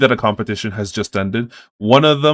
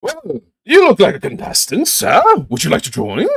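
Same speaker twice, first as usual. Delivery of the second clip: high prim official; 9 semitones higher, 4 dB louder than usual. Acted. Half-elf official invites player.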